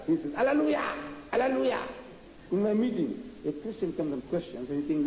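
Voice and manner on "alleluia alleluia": ecstatic alleluia. Retold or imitated. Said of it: "when the Christian goes into ecstasy".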